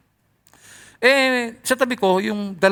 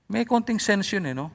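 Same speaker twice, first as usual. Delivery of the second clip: ordinary delivery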